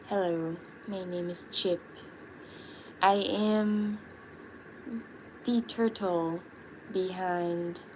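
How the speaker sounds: a hint of a proud little turtle introducing himself; mildly put-on turtle voice that trails off; Chip voice. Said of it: "I did the Chip voice".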